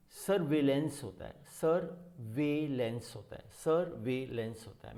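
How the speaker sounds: सर्विलेंस broken into sur-VAY-lens; split syllables. Shown as a demonstration. Teacher showing students a new word, सर्विलेंस split as sur-vay-lens. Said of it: "Hindi में भी split करके लिखा है".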